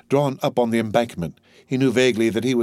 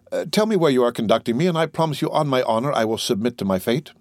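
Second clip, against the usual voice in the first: earnest Dantes; 3 semitones higher than usual. Acted. Prisoner adjures a gendarme to say where they go, earnest appeal. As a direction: appeal to a guard with mild urgency.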